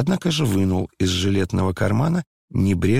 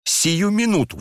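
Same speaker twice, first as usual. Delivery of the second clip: impatient, higher and higher; frantic cry; 6 semitones higher, slower than usual. A narrator's reading. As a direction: drag him along, urgent and frantic. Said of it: "вскричала она в припадке необычайного волнения". (нетерпеливо, взволнованно)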